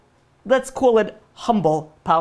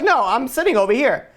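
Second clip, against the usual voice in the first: higher-pitched, lightly acted objection; mock protest; 6 semitones higher than usual. Rider to a newcomer on the roller coaster, mock protest. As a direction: object as if claiming your seat.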